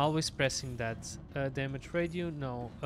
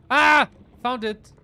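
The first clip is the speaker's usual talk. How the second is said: excited find; 7 semitones higher, 14 dB louder than usual. Real, not acted. Finding the item at last.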